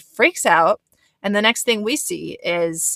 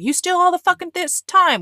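high mock accusation, raised voice; mocking the angry boyfriend; 11 semitones higher, 6 dB louder than usual. Retelling the boyfriend's jab at Lexi, mock accusing. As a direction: jab it at her like he did.

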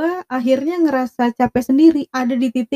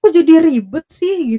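higher, slower annoyed retort; retold annoyed comeback; mock irritated snap; 5 semitones higher than usual. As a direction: mimic the boyfriend's irritation. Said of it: "Dia langsung yang kayak".

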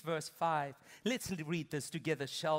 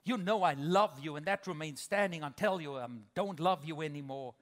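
dismissive spouse. Retold or imitated. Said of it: "the other spouse says".

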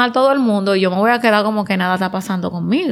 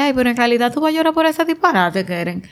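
mock dismissive; 3 semitones higher, faster than usual. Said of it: "a uno le sale".

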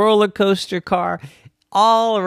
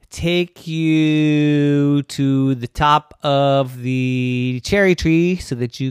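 slow magic stair; slower than usual. Acted. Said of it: "The stairs said".

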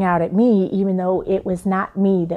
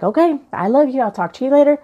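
brisk loving goodbye; 5 semitones higher, 3 dB louder, faster than usual. Retold or imitated. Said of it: "It was like".

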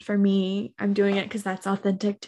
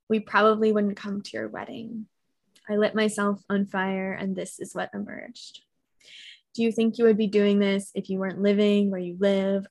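poem reading. Acted. Reads her coming-out poem.

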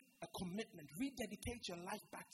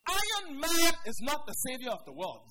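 much louder, hammering every word; loud repeat; 3 semitones higher, 15 dB louder than usual. Shown as a demonstration. Preacher repeating his point to the congregation, loudly. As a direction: drive the point home hard.

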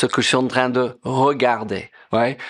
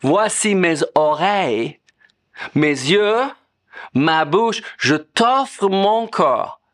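prayerful offering; 4 semitones higher than usual. Retold or imitated. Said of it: "Quand je dis".

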